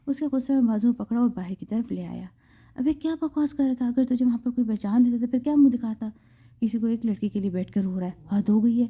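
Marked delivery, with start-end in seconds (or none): 2.7-8.9 mildly angry scolding, a touch raised; angry friend. Acted. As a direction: scold him with restrained anger. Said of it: "اس کے دوست نے غصے سے کہا".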